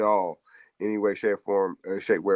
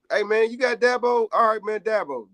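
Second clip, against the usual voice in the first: mock hype pitch; 10 semitones higher than usual. LSU pitching to Dabo, acted.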